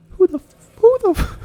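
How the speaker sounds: very high, loud cut-off demand; aggressive cop bark. Acted. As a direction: bark at them like a hothead cop. Cop barks at group.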